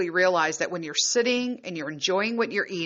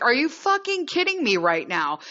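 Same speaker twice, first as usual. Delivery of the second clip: higher, incredulous scolding; indignant retold outburst; 5 semitones higher than usual. Retelling telling off her partner, indignant. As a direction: act out fed-up disbelief.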